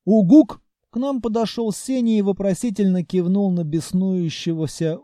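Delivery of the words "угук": monster hoot. Acted. Senya the monster hooting loudly to get attention. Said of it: "громким угуканьем".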